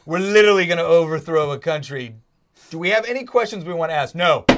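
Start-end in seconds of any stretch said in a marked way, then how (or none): 4.1-4.4 NO said louder, dropping flat at the end with no rise; flat falling no. Shown as a demonstration. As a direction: make "No" a hard falling statement. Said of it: "You heard my inflection".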